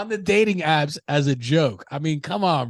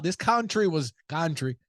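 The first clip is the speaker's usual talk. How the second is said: put-on slow, slightly higher Mexican-tinged accent; put-on Cinco de Mayo accent; 4 semitones higher than usual. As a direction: slip into a playful Mexican accent. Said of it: "don't even fault me for that accent".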